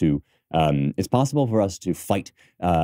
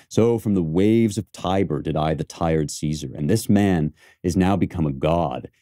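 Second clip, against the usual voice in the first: reciting Cassius. Shown as a demonstration. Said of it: "He's saying".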